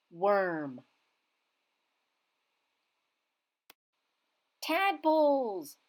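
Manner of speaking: put-on each word said slowly and clearly, one at a time, for kids to echo; clear words to repeat. Shown as a demonstration. Reading teacher to young pupils, clear word-by-word pronunciation. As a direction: pronounce each word carefully so the class can copy it. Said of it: "Say them after me".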